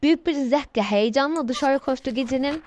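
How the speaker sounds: running storybook narration with little pitch movement; steady read-aloud; story reading. Acted.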